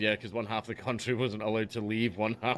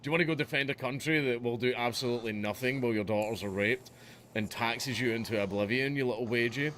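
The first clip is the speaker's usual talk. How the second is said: mock German recruiter accent; hammy German drill sergeant; 3 semitones higher, 4 dB louder than usual. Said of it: "there's no way to do a German accent".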